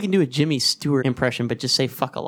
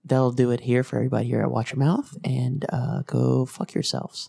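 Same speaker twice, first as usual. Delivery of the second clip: NPR voice; 3 semitones lower than usual. Pretend. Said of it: "like N P R".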